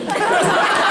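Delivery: soundless laugh, high and airy; silent giggle. Real, not acted. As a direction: laugh without voice at the punchline. Laughing at own story's punchline.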